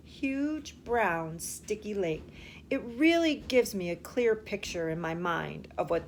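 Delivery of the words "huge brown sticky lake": Huge, brown, sticky lake each savored slowly; savoring describing words. Shown as a demonstration. Teacher savoring the describing words for children. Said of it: "I like those describing words".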